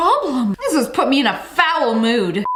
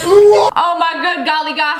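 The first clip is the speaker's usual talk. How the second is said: laughing exclaim; 5 dB louder than usual. Real, not acted. Laughing at the clip.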